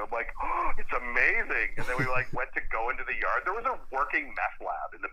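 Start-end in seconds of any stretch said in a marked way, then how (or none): 0.4-1.7 high, slow, drawn-out wonder; awestruck. Acted. Man shows his buddy the house he wants, awestruck. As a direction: gush slowly, pitched up. Awed reply on seeing the house.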